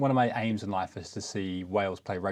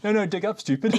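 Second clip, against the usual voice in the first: higher, louder quoted scolding; mock exasperation; 10 semitones higher, 4 dB louder than usual. Co-host jumping in with a quoted joke, mock exasperated. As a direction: call out the joke line, pitched up.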